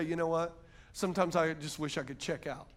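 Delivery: low, hushed admission; acted despair. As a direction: confide it quietly, close to giving up. Acting someone ready to give up.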